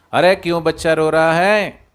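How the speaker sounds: a showy, loud question meant to carry; loud staged question. Acted. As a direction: call out loudly on purpose for the lion to hear. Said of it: "सियार ने फिर जोर से पूछा".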